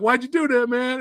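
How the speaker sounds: high-pitched mock confrontation; lightly acted challenge to a rival; a rapper. Host imitating a rapper confronting Miz, mock indignant. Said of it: "then Snoop's like".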